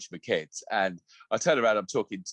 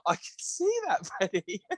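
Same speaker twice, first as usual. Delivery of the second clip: laughing. Retold or imitated. Teller's reply while laughing.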